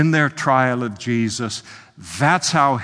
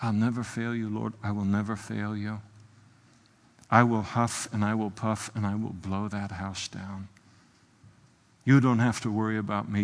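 quiet vow; 5 dB quieter than usual. Acted. Voicing Peter's quiet self-assured vows.

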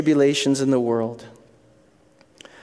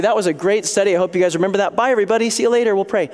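quick, higher-pitched mock goodbye; glib sign-off; 5 semitones higher, 3 dB louder, much faster than usual. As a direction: breeze through a pretend farewell to the class. Mimes a glib hasty sign-off.

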